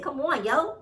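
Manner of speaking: light New York accent on come on yo. Shown as a demonstration. Host slips into New York accent for emphasis. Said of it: "In my New York accent".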